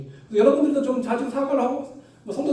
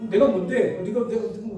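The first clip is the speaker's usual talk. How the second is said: Gyeongsang dialect. Retold or imitated. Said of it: "거기 사투리로 조금 말씀드리면".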